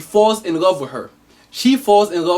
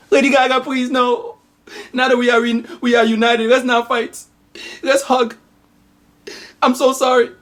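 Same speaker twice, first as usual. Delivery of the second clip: mother's voice; 6 semitones higher than usual. Acted. Mother replies in movie parody.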